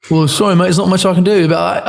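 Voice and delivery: imitated English-accented producer. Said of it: "I just did an English accent".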